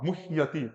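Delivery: मुह्यति as "muh-yati"; half h. Shown as a demonstration. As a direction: breathe the h of मुह्यति without a vowel. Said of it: "हा आधा ही बोलना है".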